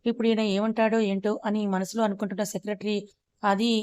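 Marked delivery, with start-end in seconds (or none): 3.4-3.7 hesitant secretary stretching the word slowly; slow drawn out. Acted. Nervous secretary answering the angry boss, drawn out slowly. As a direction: drag the word out reluctantly. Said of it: "మెల్లగా సాగదీస్తూ మాట్లాడాడు".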